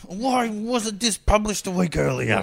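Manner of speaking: mock outrage. Mocking letter writer.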